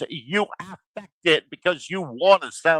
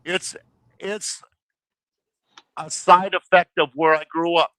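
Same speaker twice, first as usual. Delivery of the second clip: mock excuse; 3 semitones higher, 4 dB louder than usual. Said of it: "don't say".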